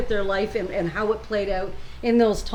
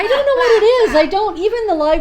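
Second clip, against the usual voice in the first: laughing while talking; amused, giggling through it; 10 semitones higher, 4 dB louder than usual. Real, not acted.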